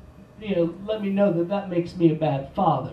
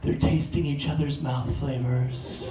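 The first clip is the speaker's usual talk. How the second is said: put-on lower, soft little-girl voice; child voice; 8 semitones lower, 4 dB quieter than usual. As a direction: play the awestruck daughter. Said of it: "she's like".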